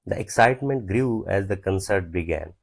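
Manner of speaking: slow, word by word dictation. Shown as a demonstration. Teacher dictating an example sentence slowly to students. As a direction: spell each word out slowly for the class.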